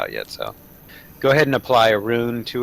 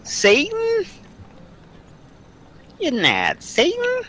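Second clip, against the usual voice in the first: demonic layered voice; slower than usual. Pretend. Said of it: "who did the demon voice?".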